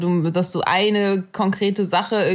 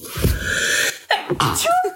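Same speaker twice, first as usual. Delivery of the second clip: sneezing; 13 semitones higher than usual. Real, not acted. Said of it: "Oh Gott, ich muss niesen".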